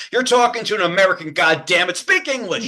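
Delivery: put-on exasperated phone rant; mock outrage. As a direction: play the irate American customer for laughs. Joke rant at call-center worker.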